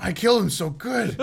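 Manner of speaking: giddy boast. Pretend. S1 plays elf boasting kill.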